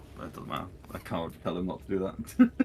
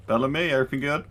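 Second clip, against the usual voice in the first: loud, higher-pitched check-in; calling out; 7 semitones higher, 5 dB louder, much faster than usual. Acted. Player checks on Bellamy from afar, calling out. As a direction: call across to a companion.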